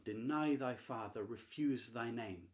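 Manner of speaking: "Deny thy father, refuse thy name" in even iambic beats; "Deny thy father, refuse thy name" measured like a heartbeat; rhythmic verse. Shown as a demonstration. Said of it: "the rhythm".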